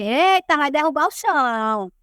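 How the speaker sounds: mock exclamation, stretched at the end; calling out. Neighbor passing the yard reacts to her stomping, calling out.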